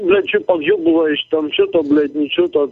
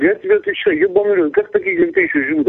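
angry outburst; 10 semitones higher than usual. Real, not acted. Caller raging at his online insulter, angry high voice. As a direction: voice jumps high in rage. Furious insults over phone call.

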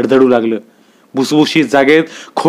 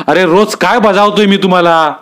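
higher, sharp scolding of the latecomer; angry rebuke; 5 semitones higher than usual. A narrator's reading. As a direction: scold the watchman from the gut. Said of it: "आबांचा आवाज असा वर आढ्याला जाऊन भिडला". (चिडून दटावणं)

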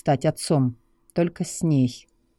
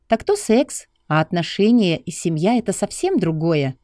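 lightly voiced young woman; 3 semitones higher than usual. Lucy answers him.

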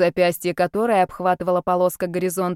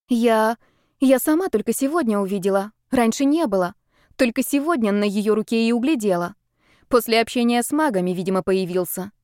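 contemptuous; 3 semitones higher than usual. Acted. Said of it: "с презрением в голосе сказала девочка".

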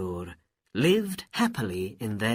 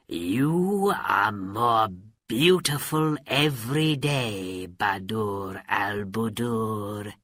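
sly villain; slower than usual. Acted. Villain flatters the princess.

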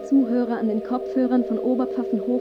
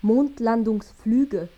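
slow drawn-out word; much slower than usual. Acted.

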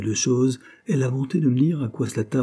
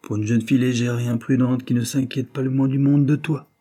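«jeune fille légère et imprudente» driven home, pitched up; emphatic; 4 semitones higher, 3 dB louder than usual. A narrator's reading. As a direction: insist on «légère et imprudente», raised voice building to «toi». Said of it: "répéta William avec accent".

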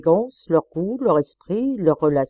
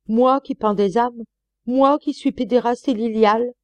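louder, mocking self-accusations; sarcastic counterattack; 4 semitones higher, 4 dB louder than usual. Husband mocking his wife's accusations, angry sarcasm. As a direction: fling her reproaches back with sarcasm.

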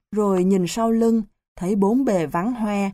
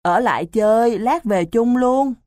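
ingratiating coaxing; 4 semitones higher than usual. Acted. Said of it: "cười giả lả".

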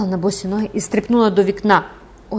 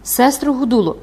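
raised, higher-pitched call; 5 semitones higher, 4 dB louder than usual. Acted. Gervaise at the little window, calling out. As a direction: call to someone inside a cell. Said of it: "гукнула".

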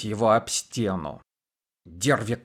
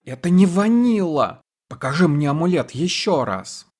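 higher, louder frightened cry; cry of terror; 5 semitones higher, 4 dB louder than usual. A narrator's reading. Derve Karim panicking at the second demon, crying out in terror. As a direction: shriek it as the wrong demon appears. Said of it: "вскрикнула от ужаса".

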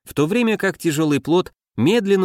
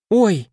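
a high, sudden yelp; startled squeak; 8 semitones higher, 4 dB louder than usual. Acted. Tifnut yelps as the crocodile lunges, a startled squeak. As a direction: squeak as a crocodile snaps at your feet. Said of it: "Не сдержав писка".

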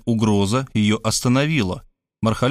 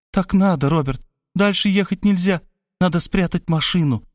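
hiccupping hysterics; 7 semitones higher than usual. Acted. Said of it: "начала как-то странно икать".

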